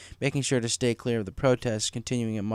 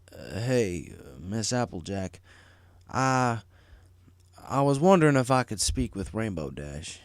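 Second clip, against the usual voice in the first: sullen hesitant request; slower than usual. Acted. Marty asking to see Rainbow, sullen and hesitant. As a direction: stammer it out sullenly. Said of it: "he requested sullenly".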